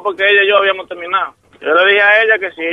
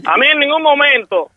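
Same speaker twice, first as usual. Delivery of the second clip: higher, heated outburst; real anger; 4 semitones higher than usual. Real, not acted. Prank victim blows up at the uncle, angry. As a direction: vent how fed up he is.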